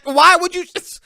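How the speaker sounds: high, loud exasperated outburst; real frustrated shouting. Real, not acted. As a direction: yell at the player in disbelief. Exasperated at a player's bad play.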